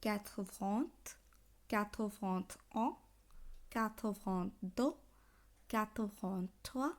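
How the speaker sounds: each number from "quatre vingt" slowly, in separated chunks; measured, word-by-word French counting for learners; French pronunciation drill. Shown as a demonstration. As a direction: lift the last word after "quatre vingt", as in reciting a list. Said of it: "উচ্চারণ আর একবার বলে দিই".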